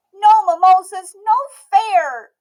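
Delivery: put-on slow, loud, high grumbling child; a sulking girl stretching each word; sulky Emmy. A narrator's reading. Emmy complaining.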